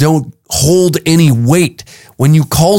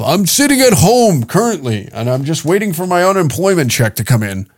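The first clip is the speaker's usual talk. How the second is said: mock caller reply; 4 semitones higher than usual. Acted unemployed caller.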